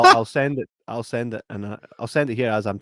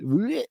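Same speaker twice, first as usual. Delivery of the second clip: mock gagging; 9 semitones higher than usual. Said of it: "She's like".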